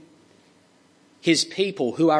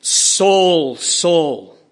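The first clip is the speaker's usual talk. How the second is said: passionate call; 3 dB louder than usual. Acted. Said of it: "a passionate voice speaks from heaven".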